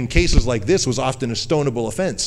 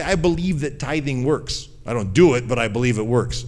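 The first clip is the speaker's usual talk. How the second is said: mock hypocrite excuse. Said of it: "somebody can say".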